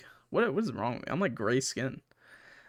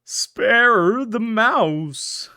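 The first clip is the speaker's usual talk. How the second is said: very slow, louder, each word hammered; capital letters read out; 6 semitones higher, 6 dB louder, much slower than usual. Shown as a demonstration. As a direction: read it like it's written in capitals, dragging every word. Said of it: "I love when they do the capital letters".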